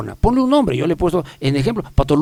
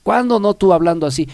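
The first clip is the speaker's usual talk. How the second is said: higher, mock-weary teasing; stretched-out opening, teasing and raised in pitch; amused dismissal; 6 semitones higher than usual. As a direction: brush off the inner critic playfully. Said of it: "yo me río y digo".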